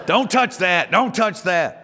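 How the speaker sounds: high, loud snapping grandma; Granny warning. Retold or imitated. Grandma warning the grandkids off her things, high and loud. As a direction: snap at the kids' hands. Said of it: "It's very".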